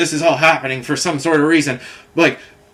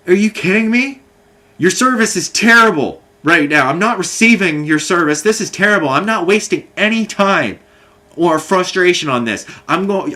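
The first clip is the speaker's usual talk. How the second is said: retold angry outburst; 3 semitones higher than usual. Angry reply to survey request.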